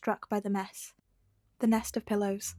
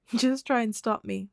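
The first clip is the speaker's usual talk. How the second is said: teasing; 2 semitones higher, 4 dB louder than usual. Acted. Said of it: "Midoriya teased".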